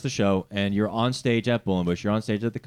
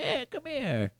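mock creepy call; 14 semitones higher, 7 dB quieter, slower than usual. Joins mock bit.

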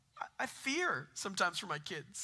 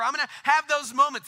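emphatic; 7 semitones higher, 12 dB louder than usual. Real, not acted. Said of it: "That's not gonna happen".

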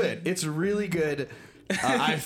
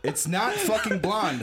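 laughing; 4 semitones higher than usual. Real, not acted. Mishearing, laughing.

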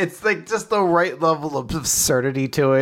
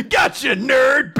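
louder, slow, laughing jeer; laughing mock taunt; 6 semitones higher, 4 dB louder, slower than usual. Friend mimicking the bragging spy, laughing jeer. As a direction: taunt him through laughter.

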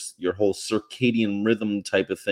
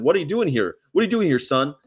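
mock challenge from a cop, pitched up; imitated gruff-talking cop; 5 semitones higher, faster than usual. Cop rolling up on a driver, mock brusque challenge. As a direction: question him like an old-time officer. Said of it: "they didn't talk like that".

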